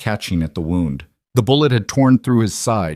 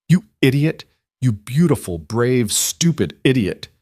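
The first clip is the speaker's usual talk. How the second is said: relieved scolding; 4 semitones higher than usual. Acted. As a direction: berate him out of fear. Lila scolding wounded lover.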